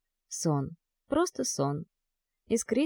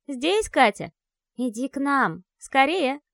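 put-on eerie ghost child; 5 semitones higher than usual. A narrator's reading. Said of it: "звонкий детский голос".

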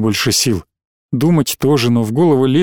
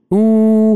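ordinary delivery

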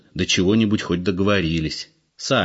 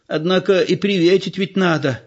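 put-on old woman's voice; 11 semitones higher than usual. A narrator's reading. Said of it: "сообразила старуха".

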